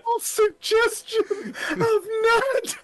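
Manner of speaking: high, slow, strangled by laughter; teary high laughing voice; crying laugh. Retold or imitated. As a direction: squeak the quote while crying laughing. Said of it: "My scotch says it's a subtle suggestion of nut".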